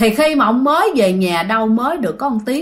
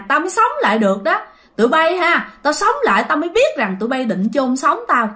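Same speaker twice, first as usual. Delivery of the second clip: higher-pitched retold tirade, quick in places; angry rant; 5 semitones higher than usual. Grandpa scolding children about being sent back, angry. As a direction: rail at them as the angry grandpa. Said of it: "Chửi quá trời chửi luôn các bạn".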